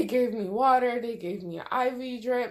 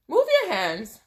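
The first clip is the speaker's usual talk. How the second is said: nurse's command; 4 semitones higher, 4 dB louder than usual. Retold or imitated. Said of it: "She kept telling me".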